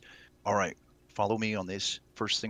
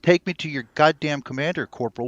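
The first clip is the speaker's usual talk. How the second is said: loud, higher barked command; snapped order; 6 semitones higher, 6 dB louder than usual. Acted. Fake captain ordering the corporal, barked and furious. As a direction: bark the order right in his face. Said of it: "as soon as you snap at him".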